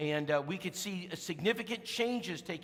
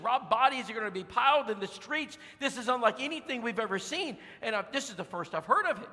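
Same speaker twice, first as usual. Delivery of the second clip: alarmed warning; 4 semitones higher than usual. Retold or imitated. Sister warns of disaster.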